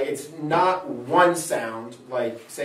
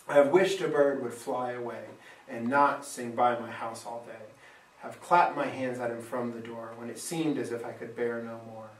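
poem recital; 3 semitones lower, 4 dB quieter than usual. Shown as a demonstration. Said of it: "you kind of hear the flow to it".

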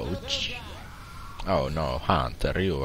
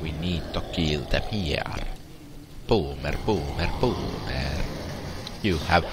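fake Italian accent. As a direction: pretend Italian gamer accent. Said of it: "In Italiano accident. I mean accent".

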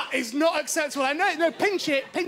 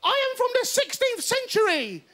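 theatrical announcement, voice pitched higher; hammed-up actress; 9 semitones higher than usual. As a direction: proclaim it like a costumed actress. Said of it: "girl in olden dress went".

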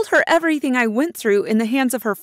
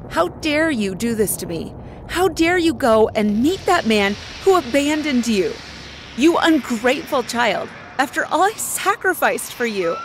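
screaming like a banshee; 4 semitones higher than usual. Acted. Mother berating her daughter for seeing her father, screaming. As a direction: hurl the accusations at her. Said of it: "I screamed like a banshee".

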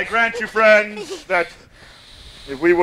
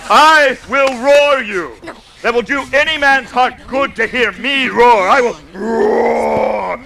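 mock roar. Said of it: "Let me play the lion too".

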